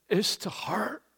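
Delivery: whispered aside on "is to hurt"; hushed. Real, not acted. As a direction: drop to a breath, rising. Preacher drops to hushed aside.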